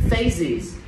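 "Phases" carefully enunciated, both syllables distinct; clear pronunciation. Shown as a demonstration. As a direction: sound out "Phases" with every ending heard. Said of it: "phase đọc rõ ra".

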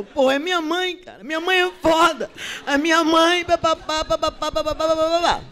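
put-on high, loud fed-up young guy; exasperated taxi driver. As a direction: vent about your mother, rattling on. Driver complains about his mother.

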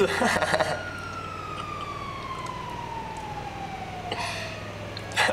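sustained laughing fit; long laugh. Real, not acted. Streamer amused after joking about his audio, long laugh. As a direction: laugh on and on without words.

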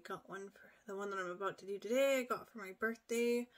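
speaking through fingers; fingers on lips. Real, not acted. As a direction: hand partly covering mouth. Seen 0: Fingers rest on lips, partly covering the mouth while speaking.

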